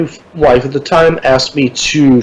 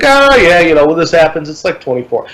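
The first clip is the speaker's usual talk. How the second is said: put-on Puerto Rican accent; 3 semitones higher than usual. Airport clerk explaining the volcano delay, light Puerto Rican accent. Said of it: "I'm not doing an accent".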